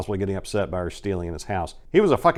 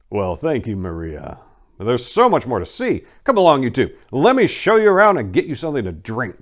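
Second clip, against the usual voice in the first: hosting John; 3 semitones higher, 6 dB louder than usual. Acted. John welcoming guests inside.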